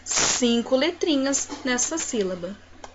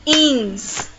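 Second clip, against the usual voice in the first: INS, TAN, TE with long pauses; syllable by syllable. Shown as a demonstration. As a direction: split INSTANTE into three beats. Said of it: "também uma trissílaba".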